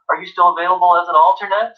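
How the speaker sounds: a hint of a bright secretary on the phone; cheery secretary. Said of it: "cheery female secretary voice".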